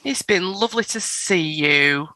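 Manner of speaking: slow, unsure farewell; drawn-out, uncertain sincerity; doubtful. Real, not acted. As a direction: say it haltingly, as if doubting it. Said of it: "I said it really doubtful".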